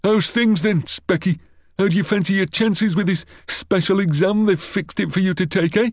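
high-pitched, taunting schoolboy bully; mocking, high schoolyard taunts; sneering bully. A narrator's reading. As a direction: jeer at the teacher's pet in a high voice. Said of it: "sneered the bully".

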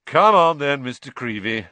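loud, high start, easing off; jolly him along with a big smile; beaming heartiness. A narrator's reading. Lockhart beaming at Colin, hearty summons. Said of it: "said Lockhart, beaming at Colin".

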